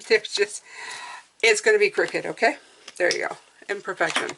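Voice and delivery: whistly s sounds through aligners; whistling s. Real, not acted. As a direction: let the s whistle through your teeth. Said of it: "Sorry about the whistling".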